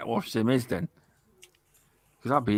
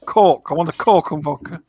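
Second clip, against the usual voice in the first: "Cork" and "cork and vodka" in a lightly mocked Scottish accent; Scottish "Coke"; 3 semitones higher than usual. Shown as a demonstration. Mimicking Scottish relatives ordering vodka and Coke, mock Scottish accent. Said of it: "that's what they sound like".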